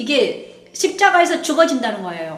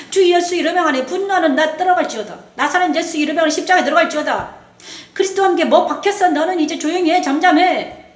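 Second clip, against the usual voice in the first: commanding declaration. Shown as a demonstration. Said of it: "이렇게 선포하는 것입니다".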